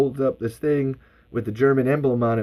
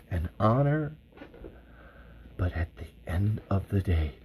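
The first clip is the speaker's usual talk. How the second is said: slow, weighty dramatic oration; solemn war speech; slower than usual. Acted. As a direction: address the folks gravely, with long pauses.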